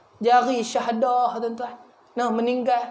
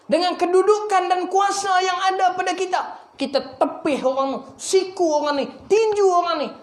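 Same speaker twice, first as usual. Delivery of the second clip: raised, high-pitched preaching with driving emphasis; 6 semitones higher than usual. Acted. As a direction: rebuke the congregation in rising bursts.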